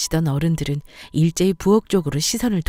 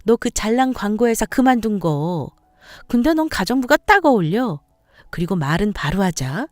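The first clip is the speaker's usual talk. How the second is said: lightly acted scornful in-law; a touch of mocking superiority; dismissive sister-in-law; 3 semitones higher than usual. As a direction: brush off her pain with pointed intonation.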